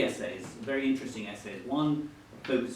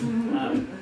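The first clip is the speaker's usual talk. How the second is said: laughing; 11 semitones higher, 7 dB louder than usual. Real, not acted. Interviewer laughs restating his question.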